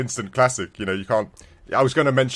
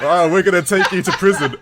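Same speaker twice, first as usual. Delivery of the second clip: mock Russian guard; 6 semitones higher, 7 dB louder than usual. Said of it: "the Russians were saying".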